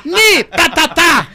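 high, loud, drawn-out dubbed catchphrase; mock Japanese dubbing. Guest imitates his Japanese dubber, mock high-voiced shout. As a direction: imitate a squeaky Japanese voice double. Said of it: "o cara fazendo a minha transação, japonês".

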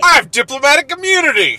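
high, loud mock declaration; mock entitled American. Co-host parodying the driver refusing a ticket, mock entitled.

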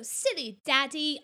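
put-on slow, teasing British child; imitated British accent. Daughter teasing dad like Peppa, imitated British accent. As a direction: draw out a little Peppa-style British tease. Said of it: "she'll go".

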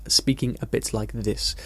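slow, measured RP English accent; Received Pronunciation. Shown as a demonstration. Teacher illustrating the accent learners are told to copy, Received Pronunciation. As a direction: put on a careful RP accent, unhurried. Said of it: "received pronunciation as it's known".

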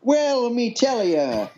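mock pirate telling a tale. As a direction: play the old sea dog for laughs. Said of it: "do that in your best pirate voice".

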